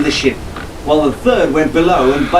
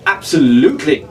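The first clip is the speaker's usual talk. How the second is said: cheerful. Acted. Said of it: "Fitzwilliam said cheerfully".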